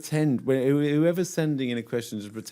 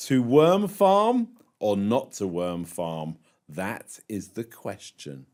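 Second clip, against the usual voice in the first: mock Shakespearean; 3 semitones lower, slower than usual. Reading a listener's worm farm question, mock-Shakespearean gravity. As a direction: declaim it slowly like a famous soliloquy. Question read as Hamlet's soliloquy.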